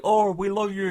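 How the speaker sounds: hammed-up adoration; mock adoring crowd. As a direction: gush like a crowd of fans.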